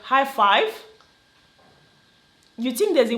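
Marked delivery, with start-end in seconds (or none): 0.0-0.8 mock excitement. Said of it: "and then you are like".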